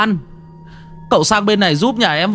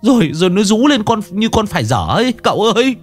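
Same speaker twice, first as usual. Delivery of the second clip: high, panicky pleading voice; frantic husband; 9 semitones higher than usual. Acted. Husband begging the master to save his wife, high panicked. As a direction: beg for help, scared for his wife.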